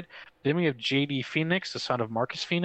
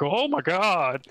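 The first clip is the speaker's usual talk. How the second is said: mock freak-out, higher and drawn out; astonished fan exclamation, acted out; 4 semitones higher, 3 dB louder, slower than usual. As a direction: imitate a fan losing it, stretched "oh my god". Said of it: "Like, freaking out".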